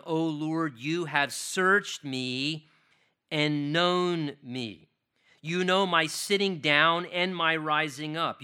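slow, measured reading of the psalm; scripture reading. Acted. Pastor reads Psalm 139 aloud to the congregation, slow and solemn. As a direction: read each line with weight, unhurried.

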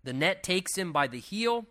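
emphatic, measured Bible reading; declaimed scripture. Acted. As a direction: read the verse out phrase by phrase. Reads scripture aloud to the congregation.

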